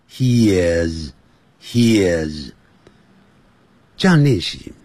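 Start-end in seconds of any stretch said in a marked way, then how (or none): 0.1-2.5 low, falling "he is" with short i; correct pronunciation. Shown as a demonstration. Teacher repeats the right way, low linked "he is". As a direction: let "is" relax into a short vowel, low. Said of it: "不要念he is".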